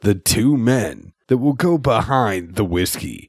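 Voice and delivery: lightly voiced announcer; a hint of a radio host. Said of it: "That fake voice doesn't cut it".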